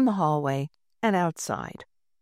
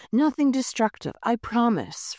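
higher, bright eager promise; 5 semitones higher than usual. Acted. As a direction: promise fast to get the prize.

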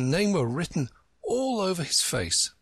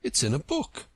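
gentle whisper; 3 semitones higher than usual. A narrator's reading. Alice gently whispering to Humpty Dumpty. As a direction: breathe it gently, no voice. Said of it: "Alice said very gently".

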